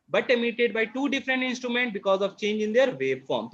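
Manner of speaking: reads each word very slowly for notes; slow classroom dictation voice. Acted. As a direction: dictate it word by word so they can write. Dictating definition.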